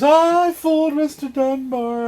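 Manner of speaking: high, loud, drawn-out crowing; mock crazed gloating. Fake stabber taunting the star, crazed gloating. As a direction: stretch it out in giddy triumph. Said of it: "He goes".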